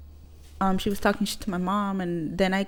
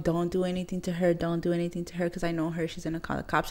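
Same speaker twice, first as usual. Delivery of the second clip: softer, restrained warning; cautioning mother; 2 semitones lower, 5 dB quieter than usual. Retold or imitated. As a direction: imitate mom quietly holding someone back. Mom cautioning her daughter, retold.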